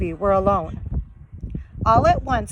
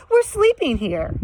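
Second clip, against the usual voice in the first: Shaggy voice; 7 semitones higher than usual. Acted.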